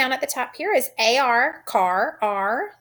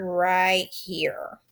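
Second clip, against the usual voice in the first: whispered; 2 semitones lower than usual. Real, not acted. Teacher whispering aside.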